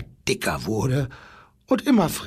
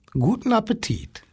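friendly; 7 semitones higher than usual. A narrator's reading. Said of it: "sagte er".

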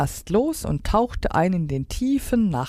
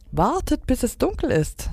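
high, eager excitement; excited; 8 semitones higher than usual. A narrator's reading. Stella Luna promises her bird friends a night flight, excited. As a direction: pitch it up with anticipation. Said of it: "sagte Stella Luna aufgeregt".

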